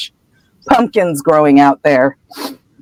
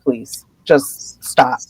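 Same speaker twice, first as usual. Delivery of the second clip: embarrassed plea; 5 semitones lower, 5 dB quieter, much slower than usual. Retold or imitated. Harry embarrassed, begging Hagrid.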